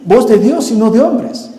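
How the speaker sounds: "voz de Dios y no de hombres" ending on a sarcastic rise; mocking echo. Shown as a demonstration. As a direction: toss off "voz de Dios y no de hombres" as ironic mockery. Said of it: "Ah, sí".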